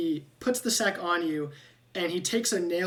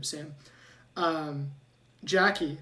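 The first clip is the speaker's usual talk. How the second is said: normal talking voice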